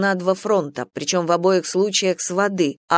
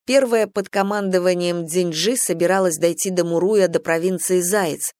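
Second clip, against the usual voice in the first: ordinary delivery, nothing marked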